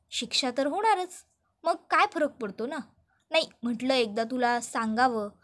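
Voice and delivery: sly, mocking villain taunting his rival; gloating villain. Rajesh taunts Arnav in jail, smug and gloating. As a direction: drip smug menace over the phone.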